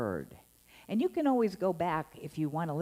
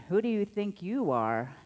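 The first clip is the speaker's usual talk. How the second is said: scolding tone; 6 semitones higher, 5 dB louder than usual. Retold or imitated. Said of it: "it was, "I'm in trouble".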